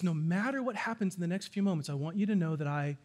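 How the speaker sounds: a husband's quiet, loving promise; tender reassurance. Shown as a demonstration. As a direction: lean in and reassure her softly. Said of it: "and then what you say is".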